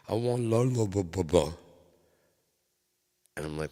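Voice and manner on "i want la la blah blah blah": put-on high babbling toddler voice; baby talk. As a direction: babble like a tiny girl asking for something. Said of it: "she's like".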